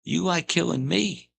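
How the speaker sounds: high, taunting voice; imitating Pee Wee. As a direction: needle him in a high, creepy tone. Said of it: "He said".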